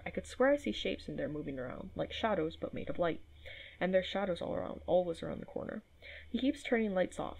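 reading a journal entry aloud, a touch voiced; diary reading. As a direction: read the note like the patient's private diary.

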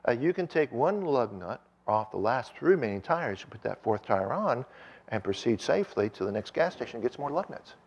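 calm, matter-of-fact inmate. Retold or imitated. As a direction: explain it evenly and unhurriedly. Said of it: "the inmate very calmly said".

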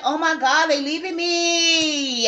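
slow, hammed-up crying wail; mock wailing. Jealous ex watching the couple, mock sobbing. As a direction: sob it out like a dumped ex, dragging the words. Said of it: "They like".

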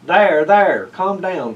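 a calming there there; the old man soothes the angry cat; soothing shush. Acted. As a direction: hush the upset cat. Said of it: "Festus shushed him".

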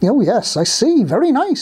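lightly squeaky storybook mouse; a hint of mouse squeak. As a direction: bob the pitch up like a little mouse. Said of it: "squeaked Gossip".

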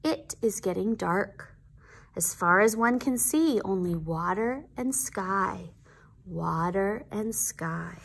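put-on gentle read-aloud to children; story narration. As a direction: read it like a picture book. Reading picture book aloud.

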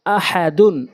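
syllables joined into one word; quick reading. Shown as a demonstration. Teacher showing learners the word, quickly. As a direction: read it briskly, vowels short. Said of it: "দ্রুতটা উচ্চারণ করতে হবে".

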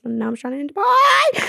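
hammed-up despair, stretching the last word; mock wail. Traveller stranded in Dubai, mock wailing. Worried, stranded alone abroad.

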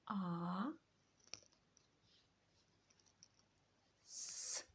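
each sound of праска said alone with long pauses, П, Р, А, С, К, А; sounding out each letter. Shown as a demonstration. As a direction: isolate every sound slowly for the class. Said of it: "Зробимо звуковий аналіз слів відгадок".

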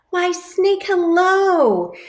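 high, bright squeaky greeting; cheery mouse. Acted. Mouse greets Snake in a high cheerful squeak. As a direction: greet your friend sweetly.

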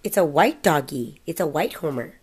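slow sing-song book reading; reading to a toddler. Acted. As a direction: read it like a bedtime picture book.

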